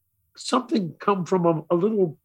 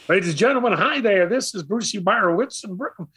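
higher, a boy's mock announcer voice; kid playing radio announcer; 5 semitones higher than usual. A boy behind the console playing radio DJ, mock announcer. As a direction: announce it like a child with a fork mic. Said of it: "I'd play radio".

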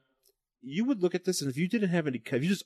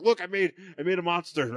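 a hammed-up mad scientist proclaiming, a bit higher; 5 semitones higher than usual. Mad scientist showing off his creation, hammed up. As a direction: crow it like a proud mad scientist.

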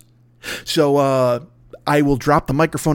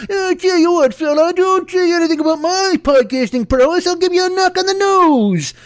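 put-on Bowery Boys voice. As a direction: threaten like a scrappy 1940s street kid. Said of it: "like one of the Bowery Boys".

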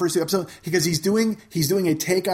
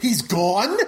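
stunned disbelief. Retold or imitated. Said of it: "the whole thing cracks, and he goes".

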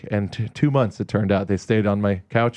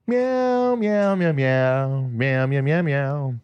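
nervous cat voice; slower than usual. Retold or imitated. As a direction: meow like a cat over guitar. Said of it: "meowing along to the lead guitar".

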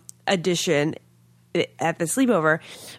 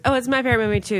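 copycat fan; 5 semitones higher, much faster than usual. Retold or imitated. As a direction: mimic an eager copycat fan. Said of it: "somebody goes".

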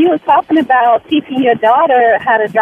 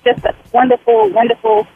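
nervous. Real, not acted. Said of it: "I'm sorry I sound so nervous".

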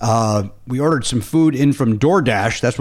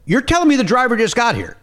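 retold disbelief; 9 semitones higher than usual. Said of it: "Jimmy Pardo losing his, uh, temper".

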